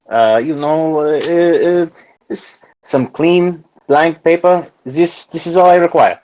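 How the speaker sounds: put-on a stronger, halting French accent, slowly; hesitant French-accented customer asking for paper. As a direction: try the French accent harder, stumbling over words. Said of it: "this time I'll try harder".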